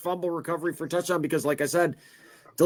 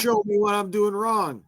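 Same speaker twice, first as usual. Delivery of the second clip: slow, slightly higher playful taunt; mock challenge; 4 semitones higher than usual. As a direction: pretend to challenge the star quarterback, drawn out. Mock challenge to star quarterback.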